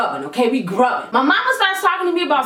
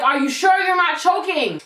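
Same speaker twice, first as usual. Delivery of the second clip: raised, insistent voice; loud question; 3 semitones higher than usual. Retold or imitated. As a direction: call out to her urgently. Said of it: "the man's like".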